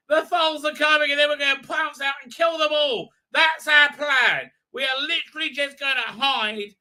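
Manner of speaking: lightly voiced hammy Dalek scheme; scheming Daleks. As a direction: hiss out the plan like a hammy baddie. Daleks plotting an ambush.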